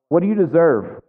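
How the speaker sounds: mock holler. Dad calling to whining kids in the car, mock holler. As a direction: holler it out, only half full. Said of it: "will holler out".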